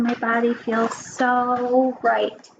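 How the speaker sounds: slow, drawn-out pretend relief; settled and unhurried; calmed down. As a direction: ease slowly through it, stretching SO. Showing calm after counting to ten.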